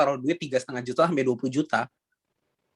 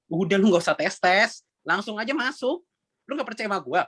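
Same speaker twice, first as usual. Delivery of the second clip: higher-pitched, pushy mock scolding; retold nagging; 5 semitones higher than usual. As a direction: re-enact pestering a reluctant friend to join. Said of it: "aku bisa ngomel kalau dia nggak gabung". (menirukan omelan yang mendesak)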